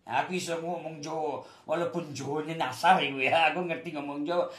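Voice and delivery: mild Javanese-accented boast. Shown as a demonstration. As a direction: speak it lightly in a Javanese accent. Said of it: "Saya tahu bahasa Jawa".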